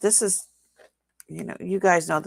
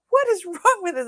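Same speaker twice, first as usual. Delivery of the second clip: high-pitched mock yell; retold exasperated yell; 12 semitones higher, 4 dB louder than usual. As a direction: imitate yelling at noisy grandkids. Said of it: "top of my lungs screaming".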